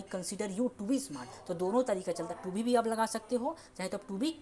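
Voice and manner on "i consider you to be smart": very slow, softer full form; slow model sentence. Shown as a demonstration. Teacher contrasting the form with to be. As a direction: lay out each word slowly. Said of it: "इस तरह से बोल सकते हो".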